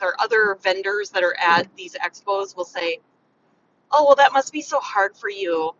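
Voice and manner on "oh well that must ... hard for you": louder, put-on sympathy; mock commiseration. Other vendor pitying her at an expo, mock commiseration. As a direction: imitate an over-sympathetic fellow vendor. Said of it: "they wanna commiserate with me".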